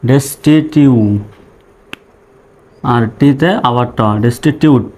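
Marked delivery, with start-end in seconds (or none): 0.1-0.9 "ডেস্টিটিউ" in slow parts, ending on a long "yu"; demonstrated vowel sound. Shown as a demonstration. Teacher showing learners the U sound, held final vowel. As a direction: break up "ডেস্টিটিউ" and hold its final "yu". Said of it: "এরকম sound".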